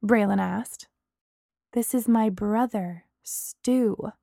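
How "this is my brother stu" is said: icy. Acted. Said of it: "Bree said icily".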